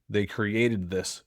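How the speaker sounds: "They created this" said very slowly, word by word; slow emphasis. Real, not acted. Slowed for weight, repeating to the betrayed partner "They created this". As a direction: drag out "created" to let it land. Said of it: "They created this situation".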